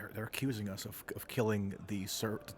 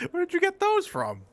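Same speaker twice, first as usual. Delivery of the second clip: shocked; 6 dB louder than usual. Acted. Astonished reaction in scene.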